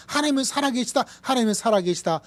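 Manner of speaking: high, loud praise shouts; exultant cry. Acted. Preacher voicing Old Testament praise, ringing shouts. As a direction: call out to God with joy. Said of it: "구약에서".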